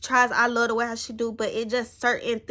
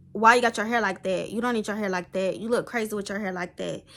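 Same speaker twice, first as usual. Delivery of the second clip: fast, dismissive mock-scold, dropping softer; imitating a scolding aunt; 2 semitones lower, 3 dB quieter, faster than usual. Mocking her aunt criticising her hair, fast and dismissive. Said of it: "the way how my aunt would say it".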